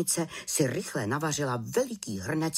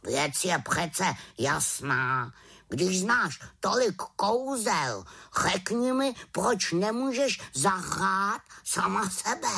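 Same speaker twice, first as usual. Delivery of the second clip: raven voice; 6 semitones higher than usual. Acted. Raven explains.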